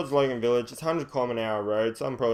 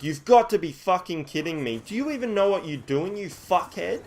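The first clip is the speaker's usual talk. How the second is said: raised, indignant swearing rant; going off his head; 6 semitones higher than usual. Retold or imitated. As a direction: retell losing your temper, pitch climbing. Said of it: "I start going off my head".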